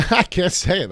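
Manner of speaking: laughing it out, high and loud. Real, not acted. Host laughing at fumbling a tongue twister. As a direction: crack up at your own stumble.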